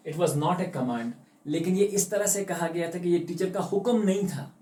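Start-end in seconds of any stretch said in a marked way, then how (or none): 0.1-1.1 slow, deliberate English read-aloud; slow story reading. A narrator's reading. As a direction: read each phrase slowly like a storybook. Reading story text aloud slowly.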